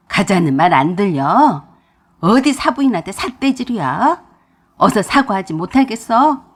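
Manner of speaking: loud, commanding rebuke from an angry father-in-law; a husband angrily ordering his wife to apologize; stern scolding. Acted. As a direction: bark the order at her, loud.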